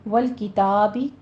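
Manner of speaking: والکتابی with a wide, stretched aa; slow recitation, open "taa" in والکتابی; open-mouthed fatha. Shown as a demonstration. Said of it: "منہ کھول کے ادا کیجیے".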